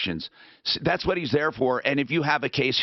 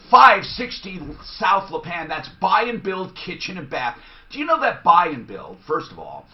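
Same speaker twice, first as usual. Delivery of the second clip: radio ad read. Acted. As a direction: sell it like a sponsor spot. Reads a live sponsor ad.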